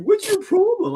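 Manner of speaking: very high-pitched mimicked challenge; mock confrontational retort. Woman challenges angry driver, high mocking imitation. Retold woman snapping back in quarrel.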